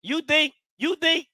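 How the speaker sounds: high incredulous taunt; challenging. Real, not acted. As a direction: throw down the challenge. Raising stakes on rival fans.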